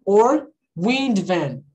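or wind van drawn out slowly; teacher slowing down to model wind van; slow demo. Shown as a demonstration. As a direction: spell out the words for learners. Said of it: "I can say weather van".

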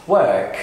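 British work, R dropped; British silent R. Shown as a demonstration. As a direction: WORK as "wuhk", long vowel. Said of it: "بنقول في البريتش".

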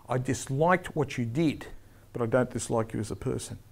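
soft, conciliatory follow-up with a smile; the kiss. Shown as a demonstration. Referee softening a warning to the player, gently conciliatory. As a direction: ease off gently, quietly reassuring. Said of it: "then the kiss, the smile".

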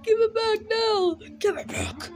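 pleading. Real, not acted. Bird grabs his tie.

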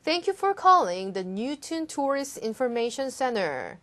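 slow, careful read-aloud of an English line; slow model reading. Shown as a demonstration. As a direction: read it slowly for learners to copy. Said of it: "더 주의해서 말씀하시면".

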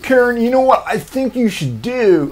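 high, loud talk-show host; hammed-up talk-show host; Steve Harvey impression. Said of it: "he's like".

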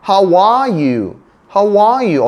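"How are you?" slow, with a high, long ARE; stress on ARE. Shown as a demonstration. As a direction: lean hard on "are", then fall on "you". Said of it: "아의 강세가 있어요". ("are"에 강세를 둔 느린 발음)

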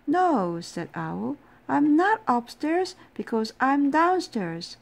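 high, loud frantic reply; loud frantic answer. Acted. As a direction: shout it back in a panic. Owl answers himself, frantic.

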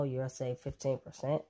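ordinary delivery

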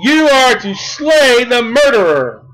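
preacher shouting God's word; thundering voice of God. Acted. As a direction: boom it out as God's order. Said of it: "And God says".

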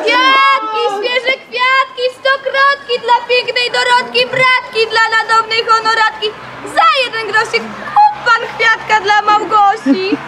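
sing-song flower seller's call; calling out wares. Acted. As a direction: tempt buyers with flowers.

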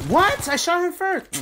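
loud high disbelieving yell; shocked outrage. Real, not acted. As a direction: yell it, kill stolen. Kill stolen outburst.

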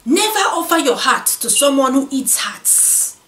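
opening line with a light West African accent. Shown as a demonstration. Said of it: "I'm gonna read this in a West African accent".

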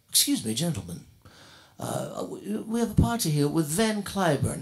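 a lightly voiced prim, formal gentleman; polite, proper and a bit stiff. The pianist's party man addressing the musicians, lightly prim formal voice. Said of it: "weird that he should speak like this".

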